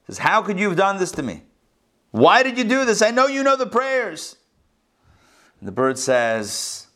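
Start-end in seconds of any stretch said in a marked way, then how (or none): 0.2-4.4 higher, pleading, a touch of mock tears; mildly hammed-up heartbroken complaint; tearful plea. A narrator's reading. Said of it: "with tears in his eyes".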